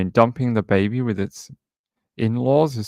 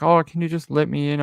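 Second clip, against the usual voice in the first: higher-pitched British visitor asking a favour; imitated British guy; 6 semitones higher than usual. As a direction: act out a stranger asking through the intercom. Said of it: "it was some British guy".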